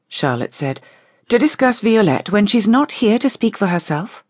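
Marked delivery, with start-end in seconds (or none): 1.3-4.2 higher-pitched protest; indignant challenge. A narrator's reading. Charlotte defends absent Violette to the visitors, indignant. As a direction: protest on someone's behalf, pitched up.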